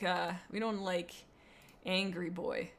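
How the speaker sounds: ordinary delivery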